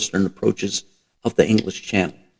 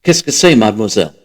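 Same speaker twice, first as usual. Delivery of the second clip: French; 7 dB louder than usual. A narrator's reading. French woman speaking French.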